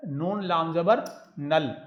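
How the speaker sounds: each letter name spaced out slowly, नून लाम जबर नल; slow spelling out. Shown as a demonstration. Teacher spelling a word slowly for students. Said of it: "Urdu में लिखते हैं".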